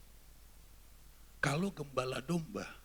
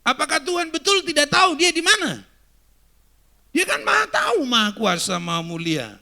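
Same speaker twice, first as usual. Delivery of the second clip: loud, high, ringing pulpit voice; preaching at full force; 7 semitones higher, 13 dB louder than usual. Acted. Preacher booming at the congregation, loud and high. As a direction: proclaim it to the whole congregation.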